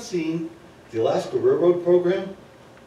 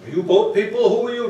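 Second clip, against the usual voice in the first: loud, higher jeering questions; mock heckle; 6 semitones higher, 8 dB louder than usual. Stage crew jeering at a newcomer, loud mock heckle. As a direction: bark it at the new arrival like rude stage crew.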